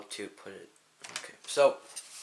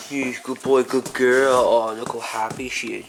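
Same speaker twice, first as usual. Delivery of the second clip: squeaky praising a dog; 2 semitones higher, slower than usual. Real, not acted. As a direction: gush over the dogs. Praising dogs at home.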